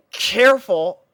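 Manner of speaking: sharp, loud, high warning; urgent call. Acted. Narrator warns the stumbling girl, sharp loud call. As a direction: catch her before she falls.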